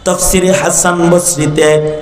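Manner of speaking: half-sung sermon with long held endings; melodic preaching. Real, not acted. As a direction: intone each phrase, drawing out the final words. (সুরেলা টানা গলায় ওয়াজ)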